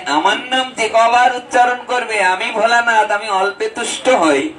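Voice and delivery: a hint of the kindly god speaking to devotees; voicing Bholanath. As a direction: Shiva gently promising grace. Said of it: "বলে".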